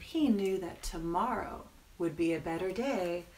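gentle reading, softening as sleep comes; children's story narration. A narrator's reading. Storyteller settling the penguin to sleep, gentle narration. Reads bedtime ending to children.

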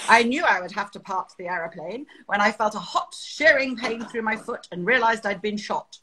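mildly imitated clipped British airman; a touch of calm, clipped British understatement; clipped British accent. Recalling a museum recording of a downed pilot, clipped British accent. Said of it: "this beautifully clipped British accent of this chap".

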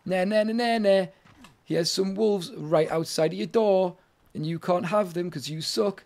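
playful mock taunt; sing-song taunting nah nah; teasing game voice. Game taunting the player, a mild mock sing-song tease. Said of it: "That's what it's doing".

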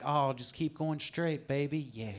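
seduce the driver with directions; sexy voice. Pretend. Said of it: "give directions all sexual".

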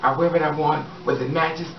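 ordinary talk, nothing marked

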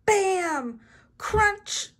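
loud, high action-word bursts; battle play. A narrator's reading. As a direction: punch out each sound word like a toy battle. Acting out toy battle.

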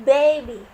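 put-on baby as 'BAY-bee', loud first syllable, falling away; pronunciation demo. Shown as a demonstration. Teacher reading the English for เด็กทารก, pronunciation demo. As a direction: model baby loudly as one isolated word. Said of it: "ภาษาอังกฤษอ่านว่า".

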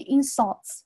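"insults" with the stress on IN; stress on first syllable. Shown as a demonstration. Teacher shows the noun form, "insults" stressed on IN. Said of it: "它就是重音在前面".

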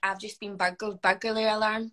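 Scottish r sounded in "burgled" and "burglary". Shown as a demonstration. Player performing the phrase teammates request, Scottish "burglary alarm". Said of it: "they get us to say".

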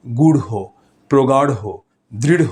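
গূঢ়, প্রগাঢ়, দৃঢ় with breathy flapped ঢ়; between dh and r. Shown as a demonstration. Teacher lists examples, গূঢ়, প্রগাঢ়, দৃঢ় with aspirated flap. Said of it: "এটা হচ্ছে ঢ আর র এর".

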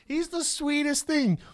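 high, drawn-out sweet cooing; gushing TV lady. Retold or imitated. News lady gushes about Bruno on air, high mock-sweet voice. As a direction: coo over an adoptable dog, sugary and slow.

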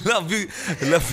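laughing. Real, not acted. Laughing in scene.

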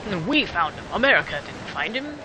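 indignant mock-German voice; bad German accent. Player protests that Americans take their goods, in a shaky-attempt German accent.

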